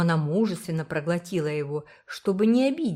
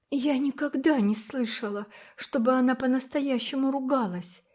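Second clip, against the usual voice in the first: put-on unsure girl; 8 semitones higher than usual. A narrator's reading. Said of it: "неуверенно сказала Уна".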